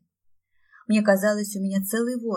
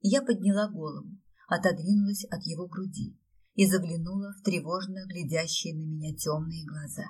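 ordinary delivery

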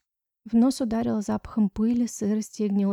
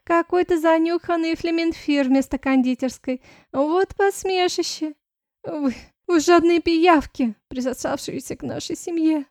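higher, louder jeering voice; nasty little voice; 7 semitones higher, 6 dB louder than usual. Acted. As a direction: sneer at the heroine. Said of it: "мерзким голоском подхватила Ванесса". (мерзким голоском, с издёвкой)

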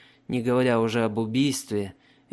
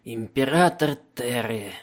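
mocking. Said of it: "издевательски усмехнулся седовласый пленник".

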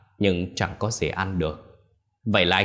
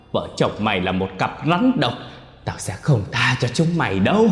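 cursing; 3 semitones higher, 3 dB louder than usual. Acted. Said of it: "mà chửi".

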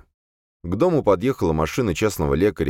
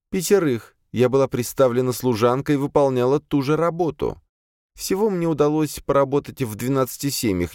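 high-pitched female servant voice; servant demoness confessing; 8 semitones higher than usual. A narrator's reading. Tense servant admits her killings to exorcist, high voice. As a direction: confess steadily in a raised voice. Azalia's voice in story.

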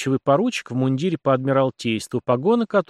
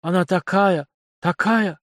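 lovestruck, higher voice trailing into wonder; dreamy; 7 semitones higher, 3 dB louder, slower than usual. A narrator's reading. Young man praising his beloved, dreamy. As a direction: swoon over her, pitched up. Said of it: "после чего добавил мечтательным голосом".

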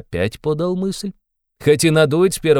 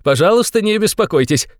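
cried out, laughing; 8 semitones higher than usual. A narrator's reading. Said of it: "вскричал Раскольников и вдруг захохотал".

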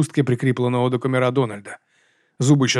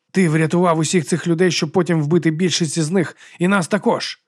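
accusing; 5 semitones higher than usual. Acted. Donald accuses Turman.

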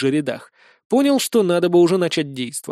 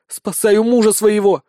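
loud, higher snarl at the succubi; growled retort; 5 semitones higher, 5 dB louder than usual. A narrator's reading. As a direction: snap at them with fury. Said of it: "рыкнула на них". (рык на суккубок)

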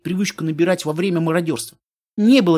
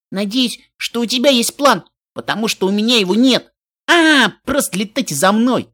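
higher, louder, cheerful call; excited call; 5 semitones higher, 4 dB louder than usual. Acted. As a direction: call out over the wind, upbeat. Каламити на лету зовёт. (весёлый возглас в полёте)

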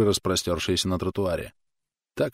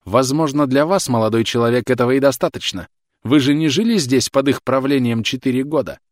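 loud, high, raging yell; furious shouting; 6 semitones higher, 6 dB louder than usual. A narrator's reading. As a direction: rage at him, rising. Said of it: "Она уже кричала".

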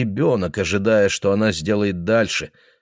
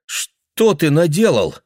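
dismayed daughter; 8 semitones higher, 4 dB louder, slower than usual. Acted. Daughter finding father.

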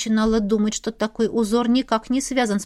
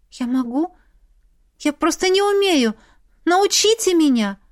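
pleading; 7 semitones higher than usual. A narrator's reading. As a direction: beg to be taught. Heroine begs the official.

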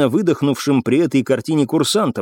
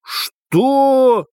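higher-pitched, angry question; hissed disbelief; 12 semitones higher than usual. A narrator's reading. Captain learns the prisoner got away, angry hiss. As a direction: demand it in mild outrage. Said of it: "прошипел изменившийся в лице капитан".

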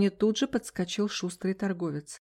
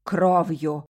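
low, louder threatening hiss; menacing hiss; 3 semitones lower, 5 dB louder than usual. A narrator's reading. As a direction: hiss it to scare her. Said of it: "грозно зашипел продавец".

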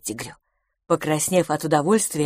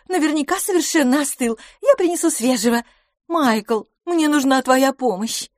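higher, bright-spirited lady conceding gracefully; playful woman teasing her rival; lively young woman; 9 semitones higher, 4 dB louder than usual. A narrator's reading. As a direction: voice Miss LaFosse up high and amused. Miss LaFosse voiced by narrator.

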